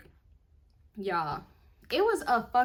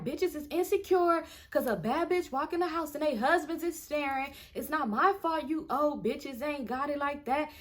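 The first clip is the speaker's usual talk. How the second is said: higher-pitched retold taunt; 5 semitones higher than usual. Woman bragging to jealous wives, higher taunting imitation. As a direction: imitate her talking trash at the wives. Acted taunt in women's quarrel.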